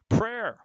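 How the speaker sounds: "Prayer" said as one syllable, PRAIR; "Prayer" clipped to one syllable PRAIR, announced loudly; prayer, the noun. Shown as a demonstration. Teacher announcing the word to the class, one syllable. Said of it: "Let's talk about prayer".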